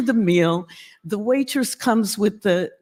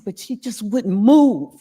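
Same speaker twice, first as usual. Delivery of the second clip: upset; 6 dB louder than usual. Retold or imitated. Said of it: "He's so upset".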